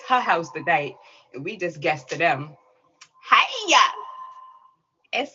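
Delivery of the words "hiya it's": high, loud call of hello; excited greeting. Real, not acted. Host hailing a favorite guest, excited call. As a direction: holler a greeting across the room. Host hails the next performer.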